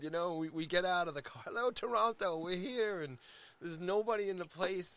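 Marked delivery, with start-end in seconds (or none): 1.5-3.0 mock arena rock greeting, raised; Spinal Tap rock star. Arriving at an empty parking lot, hammed-up rock star greeting. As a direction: call it out like a rocker to a stadium crowd. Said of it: "like the scene in Spinal Tap".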